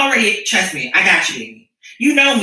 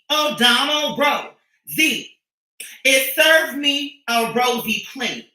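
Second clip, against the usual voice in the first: slow drawn out; 4 semitones higher, much slower than usual. Pretend. Playful drawn-out punchline.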